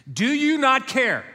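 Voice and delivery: slow, high, loud anguished cry; desperate plea. Acted. Disciples cry out to sleeping Jesus, slow and anguished. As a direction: drag it out in disbelief.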